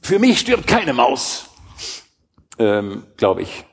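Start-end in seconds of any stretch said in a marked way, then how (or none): 0.0-1.5 solemn vow. Acted. Solemn vow about mice.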